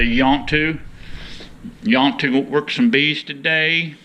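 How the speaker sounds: a hint of a rural Southern accent, imitating the neighbors; Southern cracker accent. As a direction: mimic how the Southern locals ask it, lightly. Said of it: "That's the way they talk".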